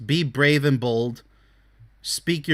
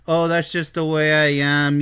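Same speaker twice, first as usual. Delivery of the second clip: Igor. Acted. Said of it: "like freaking Igor".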